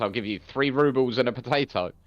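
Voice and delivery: lightly imitated Russian accent; a hint of a comic Russian accent. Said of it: "he put on a Russian accent and goes".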